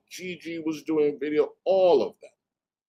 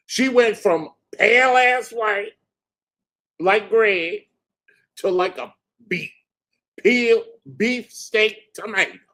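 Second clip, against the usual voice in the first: higher, louder excited ranting; gleeful mockery; 6 semitones higher, 4 dB louder than usual. Real, not acted. Describing the blushing attorney, gleeful. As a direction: relish her embarrassment. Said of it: "gleeful mockery".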